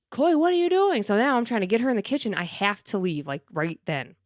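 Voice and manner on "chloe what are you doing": high, loud exasperated call; exasperated yell at dog. Retold or imitated. Scolding dog caught eating poop.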